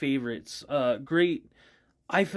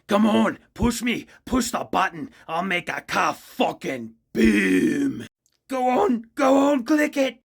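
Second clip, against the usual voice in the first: high, loud, eager egging-on voice; Knifey-style gun voice; 7 semitones higher, 7 dB louder, slower than usual. Acted. Sentient detonator urging the party, high and pushy. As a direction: goad them to press the button, manic and high. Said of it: "I modeled him after, uh, Knifey".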